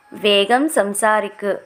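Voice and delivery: slow, clear teacher repeat of వేగం సంసారిక్; slow model repeat. Shown as a demonstration. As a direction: say it slowly so learners can follow. (నెమ్మదిగా, స్పష్టంగా మళ్ళీ చెప్పడం)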